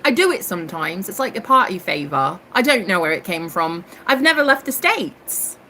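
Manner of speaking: imitating herself in a put-on British accent. Explaining her party favor to room five, put-on British accent. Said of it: "are you the girl with the accent".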